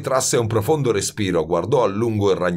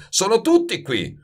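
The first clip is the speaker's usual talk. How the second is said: higher, exasperated mild bellow; 13 semitones higher than usual. A narrator's reading. Master concedes the aromas are here, bellowing. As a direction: throw it back exasperated, pitch up. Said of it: "muggì Baldini".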